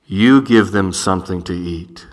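low, deep voice from above; a heavenly voice speaking down; divine voice. Pretend. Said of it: "this is what it says".

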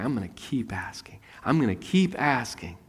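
soft whisper of determination; whispered resolve. Acted. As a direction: whisper it as a private vow. Woman resolves quietly.

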